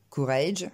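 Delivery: "courage" with an unaspirated k; French-accented English "courage"; prononciation française. Shown as a demonstration. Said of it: "On va pas dire". (« courage » à la française, sans souffle)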